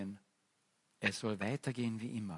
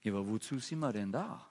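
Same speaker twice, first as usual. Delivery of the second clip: spoilsport piano. Acted. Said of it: "so ein dämliches Klavier und fragt".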